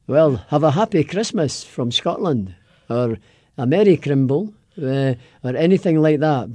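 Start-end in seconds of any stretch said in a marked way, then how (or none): 0.1-4.5 Christmas greeting in a Scottish brogue. Shown as a demonstration. Scot giving a host a holiday greeting, Scottish brogue. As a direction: wish it in a Scottish accent. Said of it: "best Merry Christmas in a Scottish brogue".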